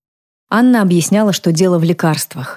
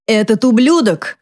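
yelled higher, slowed and bitter; angry shout; 6 semitones higher, slower than usual. A narrator's reading. Drunk mother cursing the man, angry shout. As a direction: spit out the curse in rage. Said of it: "снова закричала она".

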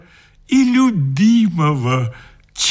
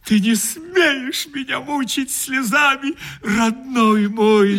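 нежно; 8 semitones higher than usual. Acted. Утешает его сквозь слёзы.

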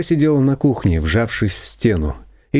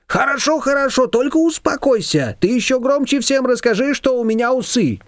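higher, placating confectioner; backing down; 14 semitones higher than usual. A narrator's reading. Confectioner backing down to calm Shushana, a touch higher. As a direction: soothe her and give way. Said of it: "пошла на попятную".

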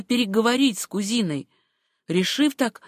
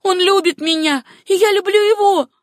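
high, loud declaration of love; impassioned raised voice; defiant outburst; 12 semitones higher, 7 dB louder than usual. A narrator's reading. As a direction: cry it out against a rival. Acted jealous quarrel, defiant declaration.

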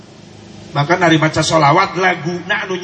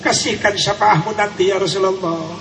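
tearful plea; 3 semitones higher than usual. Shown as a demonstration. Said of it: "Coba lagunya sentuhkan ke hati kita".

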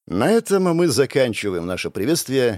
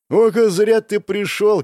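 slow, louder, higher gloating threat; menacing; 8 semitones higher, 5 dB louder, slower than usual. Acted. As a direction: savour the threat to the rival. Threatening the rival. (угрожающе, медленно, со злорадством)

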